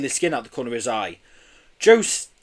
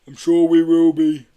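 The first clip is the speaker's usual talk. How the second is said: loud, warm Yeti reply with a smile; 4 semitones higher, 9 dB louder than usual. A narrator's reading. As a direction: beam as the friendly Yeti. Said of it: "the Yeti answered with a smile".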